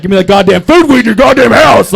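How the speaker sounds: mock redneck bellow; big redneck demanding. Big redneck at a stranger's door, hammed-up demanding yell. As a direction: belt it out like an irate redneck. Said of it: "like, a big white redneck's just like".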